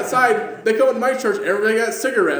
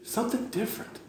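low, very soft, with long pauses; hushed admission; 5 semitones lower, 12 dB quieter than usual. Retold or imitated. Visitor admits to the pastor it's better, hushed admission. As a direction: drop to a near murmur, let each phrase hang.

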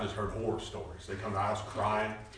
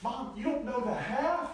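higher, louder disbelieving retort; incredulous protest; 6 dB louder than usual. Retold or imitated. Preacher retells brushing off his mother's apology. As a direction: scoff at her guilt. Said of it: "I said".

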